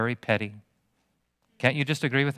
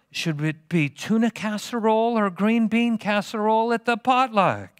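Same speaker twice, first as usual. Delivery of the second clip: higher fussy potluck complaint; mock fuss; 6 semitones higher than usual. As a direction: play up a trivial squabble. Mocking petty churchgoer complaint.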